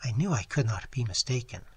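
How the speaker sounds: softly voiced young lady, a hint of sorrow; distressed young lady. Young lady answers Phillips's offer of tea, softly. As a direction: speak gently, pleading for sympathy.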